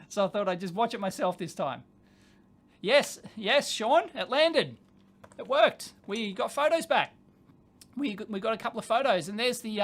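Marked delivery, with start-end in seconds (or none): 2.8-7.2 loud, punchy celebration; excited confirmation. Real, not acted. Telling Sean the landing worked, excited. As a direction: announce the good news with emphatic delight.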